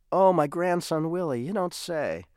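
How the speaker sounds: a hint of a forgetful grandfather greeting his grandson; mild old-man voice, pleased and muddled; confused grandpa.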